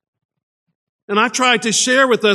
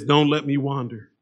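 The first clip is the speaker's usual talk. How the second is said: soft plea; 5 semitones lower, 6 dB quieter than usual. Retold or imitated. Psalmist crying out to God, hushed plea. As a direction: lower and much softer, a hushed plea. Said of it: "And so he cries out".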